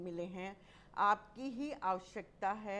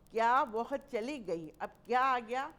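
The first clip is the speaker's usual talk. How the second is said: higher and louder astonished question; surprised; 3 semitones higher, 6 dB louder than usual. Shown as a demonstration. Teacher demonstrating surprise at someone leaving. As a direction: gasp at the news. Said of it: "विस्मय और आश्चर्य लिख दीजिए".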